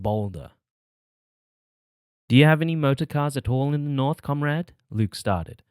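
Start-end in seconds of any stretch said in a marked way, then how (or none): 2.3-4.7 comrade leaned on with importance, rising high; stress on comrade. A narrator's reading. Child proudly asking, comrade stressed importantly. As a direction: give comrade a proud weight. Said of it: "stressing the word comrade importantly".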